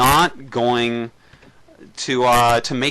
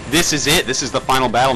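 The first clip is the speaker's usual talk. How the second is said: rising, hyped call; excited; 3 semitones higher, faster than usual. Real, not acted. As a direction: build the hype, pitch up. Caster hypes final battle.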